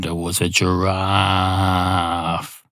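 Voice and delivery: slow, deliberate fairy-tale opening; storyteller opening. Shown as a demonstration. Storyteller trying out a new opening line. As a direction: draw out the classic story opener. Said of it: "that's not going to work".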